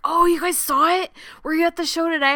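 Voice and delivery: pleased curious question; imitating the actor. Actor asking the fans about the screening, light imitation. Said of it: "he's like".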